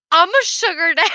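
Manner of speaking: retold loudly through laughter; mock flirty line. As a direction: laugh it out as his cheeky flirt. Man flirting, retold at work.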